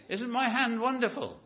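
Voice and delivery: high, laughing "Isn't my hand wonderful?"; mock the proud beggar with a laugh; amused mock beggar. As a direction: laugh through the beggar's boast. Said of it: "a beggar saying".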